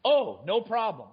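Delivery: mock carefree official, lightly voiced; a hint of a dismissive official; breezy mock official. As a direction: wave it off like a smug policymaker, slowly at first. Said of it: "speaking it like it was policy".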